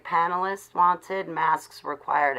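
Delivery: slow, deliberate mock sign reading; slow, sarcastic announcement. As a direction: read the notice out slowly and pointedly. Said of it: "I'm gonna say".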